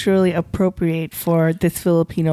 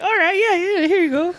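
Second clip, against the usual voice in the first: high, bright-eyed cheerful server; imitating a warm restaurant worker; friendly server; 10 semitones higher than usual. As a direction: answer like a welcoming aunty. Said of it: "And they're like".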